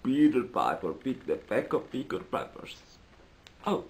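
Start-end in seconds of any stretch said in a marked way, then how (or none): none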